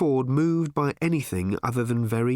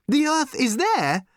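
much higher and louder, thrilled; excited shout; 4 dB louder than usual. Acted. Arthur thrilled that Earth still exists, excited shout. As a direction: burst out with the news, loud and high. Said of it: "said Arthur excitedly".

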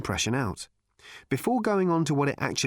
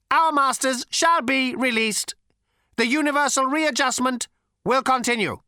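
high, cold, lifeless rasp; cold robot voice; 12 semitones higher, 5 dB louder than usual. A narrator's reading. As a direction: ancient machine, sleek and chilly. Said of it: "cold, sleek, and lifeless".

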